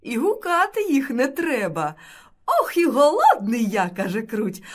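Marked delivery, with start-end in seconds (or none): 2.5-3.9 loud, high exclamation; hungry little mouse. A narrator's reading. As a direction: cry out eagerly for food.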